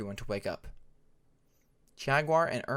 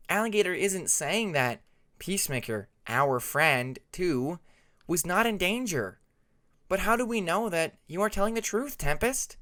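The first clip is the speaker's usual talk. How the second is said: questioning Hyena; 5 semitones higher, 4 dB louder than usual. Acted.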